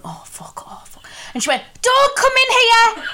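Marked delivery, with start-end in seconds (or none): 0.0-1.0 under-the-breath "oh, fuck" as she slips around; barely voiced panicked curse; muttered swearing. Retelling friend slipping on floor. 1.8-3.0 high, loud squeaky imitation of a panicking friend; mock panicked squeal. Quoting friend's panicked plea.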